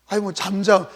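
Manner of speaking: usual speaking voice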